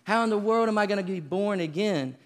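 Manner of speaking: put-on a terrified boy who can't follow her; panicked kid. Boy panics at grandmother's warning of hell, high and frantic. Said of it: "And I continue to go".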